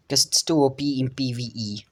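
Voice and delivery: quick whispered side remark; whispered aside. Real, not acted. Quick aside about game balance.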